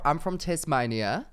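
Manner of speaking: attempted Aussie twang, a bit slow; British host trying an Australian accent; mock Australian accent. Shown as a demonstration. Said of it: "give me a sentence to say".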